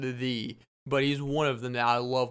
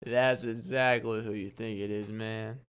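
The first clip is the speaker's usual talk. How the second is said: put-on drunk friend's voice; 3 semitones lower than usual. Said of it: "And he goes".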